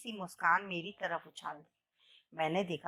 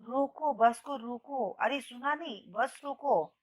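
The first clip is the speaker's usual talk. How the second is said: shouting to stop the bus; 4 semitones higher than usual. Acted. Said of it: "जोर से चिल्लाई".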